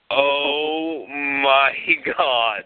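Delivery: drawn-out, stunned reaction; retold dismay, slowly spaced out; stunned disbelief. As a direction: stretch each word out with pauses between. Stunned reaction to her confession.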